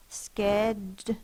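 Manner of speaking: Schedule said slowly as skedj-ool, stretching each sound; slow sounded-out word. Shown as a demonstration. Teacher modelling Schedule for young readers, slow and careful. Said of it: "Silent E to make it say U".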